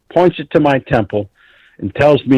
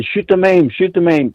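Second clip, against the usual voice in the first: mock yell; 5 semitones higher than usual. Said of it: "And I'm screaming".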